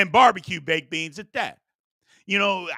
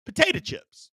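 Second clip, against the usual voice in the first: potato chips squealed much higher as a reveal; excited reveal; 13 semitones higher than usual. Acted. Host to live viewers, high excited reveal. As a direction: pop the answer up high. Announcing number ten item.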